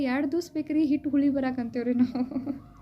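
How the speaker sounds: self-mocking quote half laughed out; laughing, mocking ourselves. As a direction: poke fun at how we would answer, laughing through it. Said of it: "ಈಗ ನಾವಾಗಿದ್ರೆ ಏನಂದ್ರೆ". (ನಗುತ್ತಾ ನಮ್ಮನ್ನೇ ಅಣಕಿಸುವ ಧ್ವನಿ)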